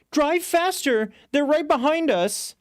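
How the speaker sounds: panicked passenger urging the cabbie. Acted. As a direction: beg him to floor it. Panicked chase in taxi.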